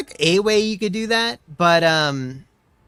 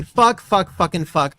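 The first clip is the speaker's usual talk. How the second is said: angry cursing; 3 dB louder, slower than usual. Real, not acted. Cursing after costly mistake.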